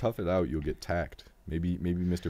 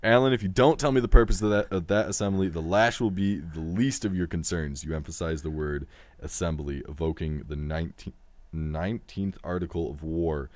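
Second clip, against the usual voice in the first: forceful opening, then measured read-aloud; story narration; 4 dB louder than usual. A narrator's reading. Game host reading the threat to Alan, story narration.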